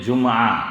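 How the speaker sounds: "جمعہ" as jum-aa, no vowel after the meem; common South Asian mispronunciation. Shown as a demonstration. Preacher showing how South Asians say it, everyday mispronunciation. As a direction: say "جمعہ" in two syllables, jum-aa. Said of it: "ہم تلفظ صحیح نہیں کرتے، ہم کہتے ہیں".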